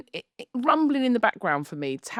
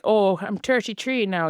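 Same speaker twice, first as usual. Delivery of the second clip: put-on Irish accent. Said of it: "she's got a thick Irish accent".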